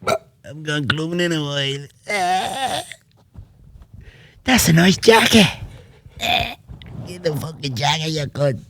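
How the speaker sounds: high, hammed-up imitation of McGregor; mock McGregor line. Quoting McGregor's cheesy movie lines to a friend, high mock voice. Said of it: "He literally didn't even sound like himself".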